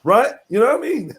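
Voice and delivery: lightly voiced, defensive rant; a hint of Tommy insisting; Tommy Robinson impression. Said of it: "my Tommy impression".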